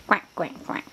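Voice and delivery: three soft, short quacks; little hushed duck noises. Shown as a demonstration. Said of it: "give the duck a kiss".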